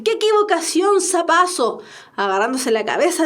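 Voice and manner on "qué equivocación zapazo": higher-pitched cry of dismay; dismayed exclamation. Acted. Cleto realising his great blunder, dismayed exclamation.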